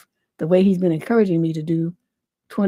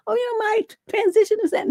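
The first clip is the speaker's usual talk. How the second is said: much higher whiny mock voice; mock the self-pitying child in a high whine; mocking selfish griever; 14 semitones higher, faster than usual. Host mocking selfish children in a high whine. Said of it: "You're thinking about yourself and".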